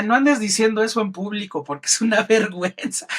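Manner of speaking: a light touch of a fond mentor telling off; mild imitation of the late mentor's fond scolding; affectionate scolding. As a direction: tease him fondly, lightly voiced. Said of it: "me lo decía con mucho cariño".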